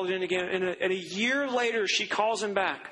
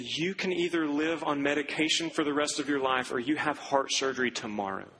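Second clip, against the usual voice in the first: grave doctor's warning; 4 semitones lower than usual. Retold or imitated. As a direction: deliver a dire diagnosis gravely. Doctor gives her the options.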